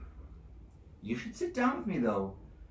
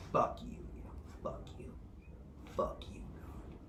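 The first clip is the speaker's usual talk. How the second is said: tag; 9 dB quieter than usual. Acted. Defiant taunt fades away.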